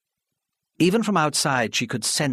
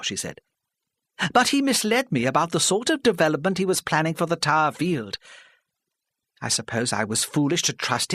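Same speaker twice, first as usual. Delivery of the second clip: put-on higher, pleading older woman, halting; flustered older lady; 7 semitones higher than usual. Mrs Parry pleading with the hostile crowd, flustered. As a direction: stammer it out, desperate to be heard.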